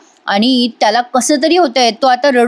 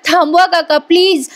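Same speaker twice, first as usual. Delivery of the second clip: higher-pitched mock yell, no real volume; retold cry for help; 4 semitones higher than usual. Priya calls on uncle to intervene, mild mock yell. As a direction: imitate a pleading shout, raised in pitch only. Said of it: "आता मोठ्याने ओरडते प्रिया".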